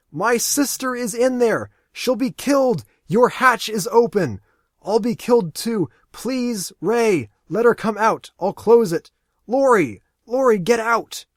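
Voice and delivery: very high and loud, desperate; frantic screaming. Acted. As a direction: scream the pleas at full force. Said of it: "Aaron screams".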